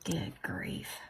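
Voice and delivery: exasperated whisper under the breath. Real, not acted. Fed up with the strip, a whispered aside. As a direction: breathe oh my gosh almost silently.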